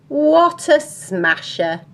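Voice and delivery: high, loud, drawn-out praise; admiring exclamation. Acted. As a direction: stretch it out in admiration. Husband admires wife in story.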